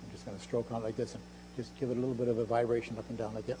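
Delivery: normal talking voice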